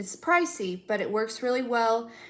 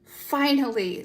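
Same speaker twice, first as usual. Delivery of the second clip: relieved cosmic voice; 3 semitones higher, much slower than usual. Pretend. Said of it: "the universe is like".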